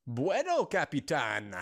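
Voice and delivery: a hint of a theatrical bandit; lightly voiced Mexican outlaw. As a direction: greet like a mock bandit. Voices Spanish-speaking outlaw Tuco.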